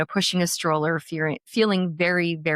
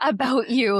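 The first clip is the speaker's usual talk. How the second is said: higher-pitched mock puzzlement; imitating curious colleagues; 7 semitones higher, 3 dB louder than usual. Colleagues remarking to her on a change, imitated puzzlement. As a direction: quote a wondering colleague in a lifted voice.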